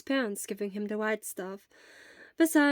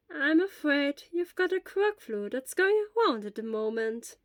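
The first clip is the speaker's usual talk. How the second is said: lightly voiced elderly nurse; 5 semitones higher, 3 dB louder than usual. Elderly school nurse gently questions a feverish boy.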